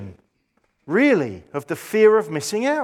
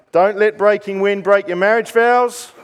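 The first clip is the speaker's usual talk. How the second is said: home shopping host. Pretend. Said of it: "Shopping channels on T V".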